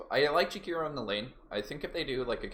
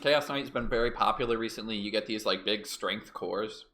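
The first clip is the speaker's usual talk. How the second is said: out of breath; catching breath while talking; after a workout; 4 dB louder than usual. Real, not acted. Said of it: "Sorry, I'm catching my breath".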